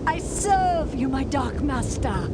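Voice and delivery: slow, devoted offering; bow before your master; reverent. Acted. Occultist swearing loyalty to the risen king, slow reverent vow.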